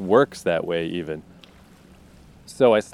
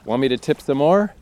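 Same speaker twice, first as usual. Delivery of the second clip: taunting questions pitched a little higher; obnoxious; 3 semitones higher than usual. Acted. She tips pews to goad him, obnoxious taunting. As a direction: needle him like an obnoxious bully. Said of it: "just to be obnoxious".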